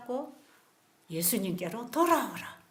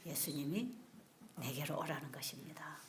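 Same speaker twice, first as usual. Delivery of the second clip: hushed whisper, much softer; 8 semitones lower, 14 dB quieter than usual. Real, not acted. Preacher whispering the invitation to come. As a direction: whisper the answer close.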